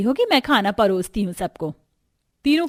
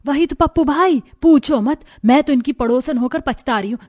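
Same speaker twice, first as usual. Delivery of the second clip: complaining neighbour woman; 4 semitones higher than usual. Acted. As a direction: pile on like a nosy neighbour. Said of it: "शिकायत करना चालू कर देते हैं".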